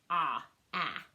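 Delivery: "ah" with mouth wide open, held; open-mouth vowel. Shown as a demonstration. Teacher showing a vowel sound to students, mouth wide. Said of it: "when we open our mouth".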